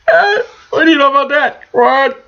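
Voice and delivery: words through laughter; high giggly laughing through it. Real, not acted. Laughing at his own joke.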